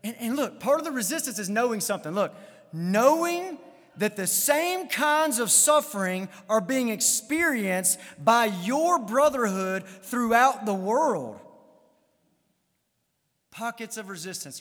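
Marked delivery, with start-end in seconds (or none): 2.7-11.4 slow, measured Bible reading; emphatic scripture reading. Real, not acted. Preacher reading a verse on shared suffering to the congregation, emphatic scripture reading. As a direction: read the verse out slowly, weighing each phrase. Reads the verse aloud slowly.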